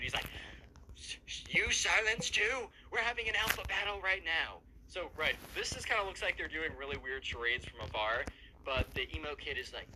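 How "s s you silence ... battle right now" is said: mock hushing. Emo kid hushes Brent.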